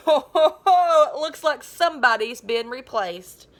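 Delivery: mocking, laughing; sneering laugh. Hugh mocks Zach laughing.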